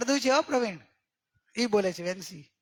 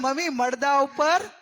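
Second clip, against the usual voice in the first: slow telling line; 3 semitones higher, 4 dB louder, slower than usual. Shown as a demonstration. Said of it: "હવે જ્યારે પહેરે કહેવાનું".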